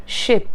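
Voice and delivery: "Ship" with a short, lax i; "Ship" with a quick short vowel. Shown as a demonstration. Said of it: "It's not sheep".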